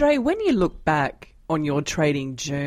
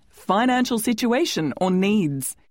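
measured, formal scripted announcement; presenter's formal disclaimer voice; disclaimer read; 5 semitones higher than usual. Acted. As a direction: read out the legal notice clearly. Host reads scripted disclaimer.

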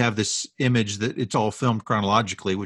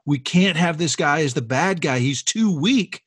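higher-pitched mock upset; upset objection; 4 semitones higher than usual. Casting director objecting to the villain, mildly upset. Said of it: "super upset".

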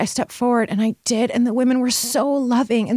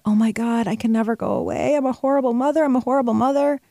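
higher, anxious self-blame; fretful guilty mother; panicked inner voice; 4 semitones higher than usual. Retold or imitated. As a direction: spiral into mock guilt, pitched up. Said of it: "And I thought".

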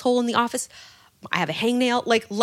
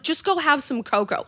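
higher, sweetly dismissive; passive-aggressive; 6 semitones higher, 3 dB louder than usual. Retold or imitated. Quoting the sign's dismissive advice, mock sweet. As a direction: brush them off sweetly. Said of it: "passive-aggressive".

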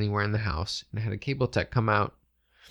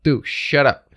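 raised, higher-pitched command; calling out; 4 semitones higher, 8 dB louder, slower than usual. Acted. Narrator calls out to the growling dog, loud and higher. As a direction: call out sharply to the dog. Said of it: "I called out".

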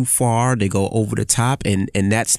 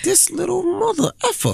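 squeaky high disbelieving mutter, much higher; mock outrage. Dad recalls his reaction to defiant son, squeaky high. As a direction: pitch it way up in mock shock. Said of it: "I was like".

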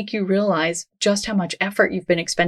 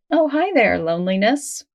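friendly greeting. Shown as a demonstration. Listener greeting their own loneliness, friendly acknowledgement. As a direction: greet a feeling like an old acquaintance.

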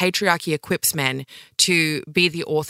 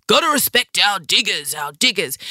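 mock Howard; 3 semitones higher than usual. Mocking Howard's digger rhetoric.

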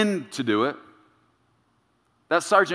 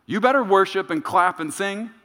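a louder, higher drill-sergeant call on "Soldier," then lighter nagging orders; sergeant's voice; 6 semitones higher, 3 dB louder than usual. Retold or imitated. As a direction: bark like the old sergeant ordering you about in church. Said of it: "still hear that voice".

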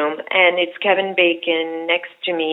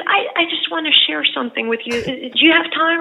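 higher, hesitant, halting offer; a light Jeff Bridges voice, searching for words; imitating Jeff Bridges; 8 semitones higher than usual. Jeff Bridges asking the cast for their time, higher and halting. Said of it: "He goes".

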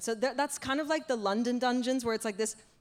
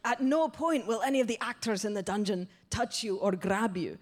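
Scottish butcher laying down rules; imperfect mock Scottish accent; attempted Scottish accent. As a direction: recite the rules in put-on Scottish. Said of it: "I can't do the accent very well".

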